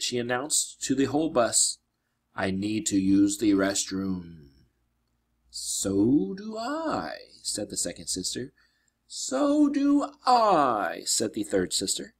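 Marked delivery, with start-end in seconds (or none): 2.3-4.5 slow, flat and rehearsed. Acted. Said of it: "In a flat voice, as if she had rehearsed it". 5.5-7.2 much higher, very slow eerie echo; creepy sister. Acted. 9.1-11.0 much higher, very slow, louder witch voice; creepy sister. Acted. Third sister, creepy echo.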